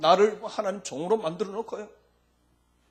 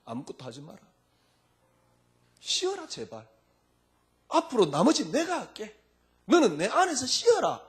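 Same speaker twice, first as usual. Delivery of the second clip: pleading Jesus; 4 semitones higher than usual. Acted. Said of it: "뭐라 그러겠습니까?".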